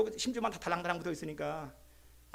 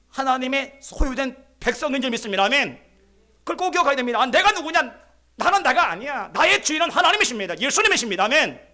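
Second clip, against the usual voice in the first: loud, raised-pitch declaration to a congregation; full-force preaching; 4 semitones higher, 8 dB louder than usual. Real, not acted. Preacher declaring to the congregation that God is the master, full-force preaching. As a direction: drive each affirmation home loudly, up to the amen.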